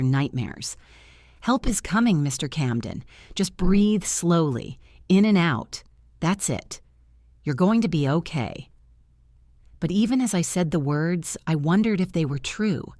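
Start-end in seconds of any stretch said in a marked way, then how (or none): 1.4-8.7 gently reassuring, measured pace; understated bedside comfort; calm, soothing. Acted. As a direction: settle a frightened patient. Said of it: "spoke to him in the calm, soothing voice".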